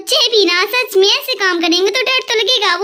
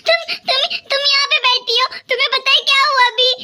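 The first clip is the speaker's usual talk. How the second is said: panting; 3 semitones higher, faster than usual. Acted. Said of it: "तुम ऐसे हाँफ क्यों रही हो".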